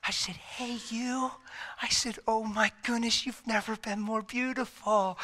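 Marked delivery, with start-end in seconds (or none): 0.3-1.3 soft, higher, tender greeting; retold tenderness to a frail loved one. Tender greeting to wife after coma. 2.3-5.2 higher voice, full of tenderness; retold, choked-up sweetness; tender admiration. Tender words to wife after coma.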